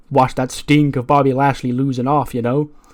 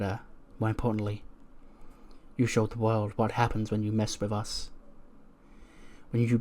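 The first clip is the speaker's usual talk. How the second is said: scheming murmur; 2 semitones lower, 10 dB quieter than usual. Retold or imitated. Candice praising herself alone in the locker room, hushed. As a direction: talk to yourself like a plotting villain.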